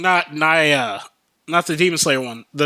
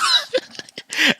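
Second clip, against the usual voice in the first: giddy high laughter. Retold or imitated. Player laughing after the raid win, giddy laugh. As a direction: laugh it out in delight.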